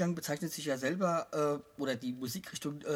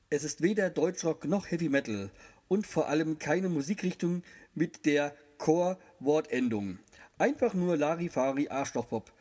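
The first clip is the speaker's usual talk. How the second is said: announcer read. Acted. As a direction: read it like a showman. Reads the official press text.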